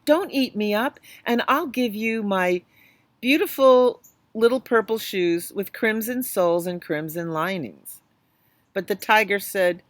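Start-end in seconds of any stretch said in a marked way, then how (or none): 0.0-8.0 put-on high, begging child's voice; pleading little boy. Little boy begging the tiger not to eat him, high and pleading. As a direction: beg sweetly to be spared.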